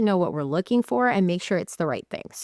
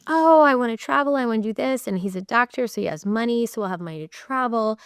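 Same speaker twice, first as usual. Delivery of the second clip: bursting out with travel hopes, a touch mock; excited sister; 3 semitones higher than usual. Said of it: "And she's like".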